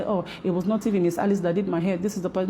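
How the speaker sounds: quick, whiny mock complaint; hammed-up imitation of a grumbling client; mocking complaining customer. Braider mocks a customer who complains about prices, quick and whiny. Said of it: "come and complaining and say".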